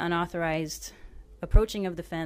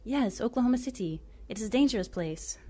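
put-on raised, knowing tone in a light Arabic accent; 4 semitones higher than usual. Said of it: "I butcher Arabic accents".

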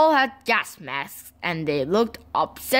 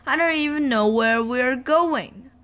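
put-on higher, mildly tearful child; a touch of upset, pitched up; sniffling; 5 semitones higher than usual. A narrator's reading. Little boy unsure where he is going, mildly tearful. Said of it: "sniffed the boy".

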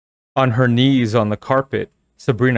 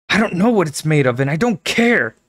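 grumbling; 7 semitones higher, 3 dB louder than usual. Acted. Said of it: "Carly Beth grumbled".

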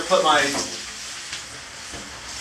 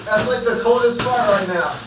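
in ice cold water; 5 semitones higher, 3 dB quieter than usual. Real, not acted. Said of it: "It's freezing".

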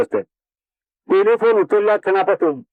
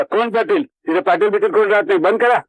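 mildly raised, curt brush-off; rude retort; 3 semitones higher than usual. Retold or imitated. Rude stranger on the phone brushing off the caller. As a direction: snap it off rudely, a bit higher. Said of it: "असा उद्धटपणा ऐकायला मिळतो".

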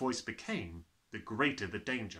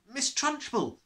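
put-on boy's voice; 13 semitones higher, 5 dB louder, slower than usual. Nigel replies.

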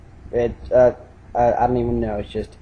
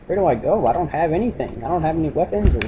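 higher, hammed-up panic over lost gear; mock panic; 3 semitones higher than usual. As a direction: play it like a panicked prisoner. Panicking naked in game cell.

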